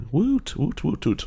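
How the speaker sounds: playful woot woot; high playful woot chant; mock cheer. Cheering for the sponsor.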